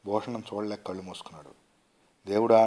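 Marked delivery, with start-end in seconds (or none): 2.3-2.7 loud, desperate wail to God; a wail of despair to God; anguished cry. A narrator's reading. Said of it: "అంటూ ఆర్తనాదం చేశాడు".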